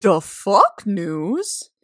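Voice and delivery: slow stretched shout. Acted. Cohost announcing the news segment with a stretched-out shout. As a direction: drag out the fuck like a segment jingle.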